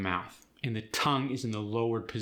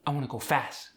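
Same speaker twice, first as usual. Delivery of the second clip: Khmer accent, final consonants dropped; Khmer-accented with "fast" losing its T; faster than usual. Shown as a demonstration. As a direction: drop endings in a Khmer accent. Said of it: "when consonants are dropped".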